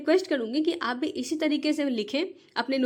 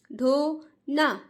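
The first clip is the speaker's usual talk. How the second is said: "ढोना" stretched very slowly with the vowel sign; slow drawn-out word; much slower than usual. Shown as a demonstration. Teacher shows parents how "ढोना" must be read. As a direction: draw out "ढोना" so children hear the ओ. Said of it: "बोलना यही है".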